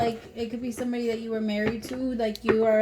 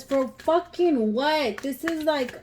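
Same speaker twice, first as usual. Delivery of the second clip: slow, drawn-out exasperated demand, a touch higher; 4 semitones higher, slower than usual. Real, not acted. Reader fed up with a partner who plays games, slow exasperated demand. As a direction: drag out every word in disbelief. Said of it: "I'm sorry".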